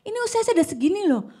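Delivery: fast, high mock complaint about age; an aging man grumbling to God about his years; complaining about age. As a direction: rattle it off like a grumbling old man. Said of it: "dia tidak memberi batas waktu".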